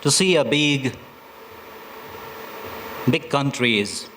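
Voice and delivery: measured recital with pauses; poem reading. Acted. Poet opens a border poem for listeners, measured poem reading. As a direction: recite the opening line deliberately.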